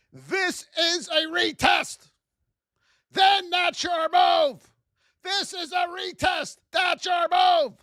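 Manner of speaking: slow, high, shouted teaching points; shouted trading rule; fired-up yell. Real, not acted. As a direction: hammer each point home with a yell. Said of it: "The reason I yell".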